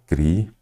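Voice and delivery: "Critérios" broken into syllables with long pauses; separando em sílabas. Shown as a demonstration. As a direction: say "Critérios" as cri, té, rios. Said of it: "aí você vem aqui e já separa". ("Critérios" separado em sílabas, com pausas longas)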